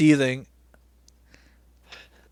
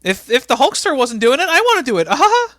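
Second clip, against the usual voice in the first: much higher, louder sleazy put-on voice; leering commentator voice; 11 semitones higher, 6 dB louder than usual. Commentator leering at Hulk Hogan's daughter on air, hammed-up. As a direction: ham up a creepy announcer.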